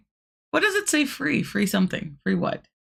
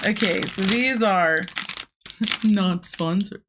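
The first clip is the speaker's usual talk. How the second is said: mock announcement; slower than usual. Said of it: "I'm just kidding".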